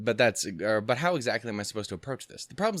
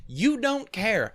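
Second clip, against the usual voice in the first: high squeaky voice; 14 semitones higher, 6 dB louder, much slower than usual. Pretend. Voicing the girl, high squeak.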